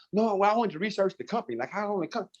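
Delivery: mock prospect voice; hesitant prospect. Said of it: "she was like".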